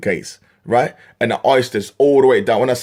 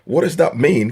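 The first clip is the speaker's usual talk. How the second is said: mocking; 5 semitones higher than usual. Real, not acted. Mocking repeat of customer's question.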